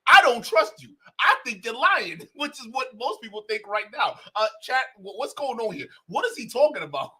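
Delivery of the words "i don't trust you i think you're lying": high, loud, cracking with laughter; laughing outrage. Real, not acted. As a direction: yell it while breaking into laughter.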